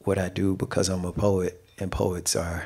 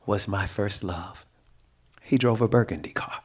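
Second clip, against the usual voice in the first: poetry reading. Acted. Poet reading her poem to a live audience, measured recital. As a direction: let each phrase land, then breathe.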